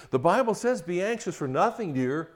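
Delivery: a hint of a condescending husband; mock pious husband. Husband quoting scripture to his stressed wife, mock syrupy. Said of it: "the last thing you should do".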